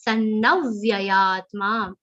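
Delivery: "Sannavyayatma" with a natural push on "va"; stress on va. Shown as a demonstration. Teacher showing natural stress on a conjunct consonant. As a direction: let the weight fall on "va" after the full na. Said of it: "The full na has a stress of va".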